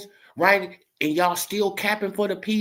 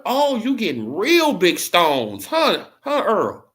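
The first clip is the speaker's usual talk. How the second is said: mock taunting; 2 semitones higher, 5 dB louder, slower than usual. Haymon mocking Earl.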